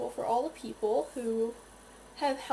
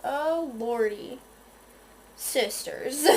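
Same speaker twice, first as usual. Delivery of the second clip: dramatic exasperation; much slower than usual. Retold or imitated. Exasperated sigh about makeup.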